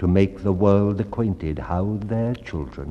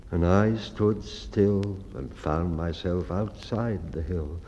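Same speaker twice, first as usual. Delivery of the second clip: sad; 3 semitones lower, 4 dB quieter than usual. Acted. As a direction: let the hope drain out of him. Lame boy recalls being left behind.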